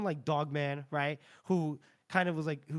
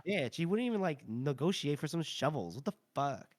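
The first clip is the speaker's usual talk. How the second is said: put-on Valley Girl voice. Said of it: "I made Shy, Shy a Valley Girl too".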